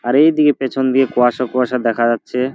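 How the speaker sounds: talking while brushing; while brushing teeth. Real, not acted. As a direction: mouth full of toothpaste. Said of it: "আমি brush করছি দুইজন".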